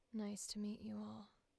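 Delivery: low, soft voice with added vocal fry. Voicing the guildmaster character's introduction: low soft Mistral voice, vocal fry. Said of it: "we want to probably go low here. Maybe low and soft? ... And vocal fry?".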